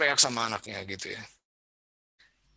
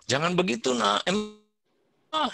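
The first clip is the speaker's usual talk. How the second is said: higher, gently chiding mother; tut-tut a child like a parent; mock scolding parent; 10 semitones higher than usual. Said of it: "kalau saya selalu bilang". (ibu menegur anak dengan nada tinggi)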